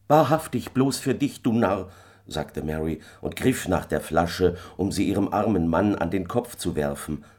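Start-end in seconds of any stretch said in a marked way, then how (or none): 0.1-1.9 lightly voiced wife, higher and scornful. A narrator's reading. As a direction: throw it scornfully at the husband. Wife mocks her husband. (leicht angedeutete spöttische Ehefrau, höher)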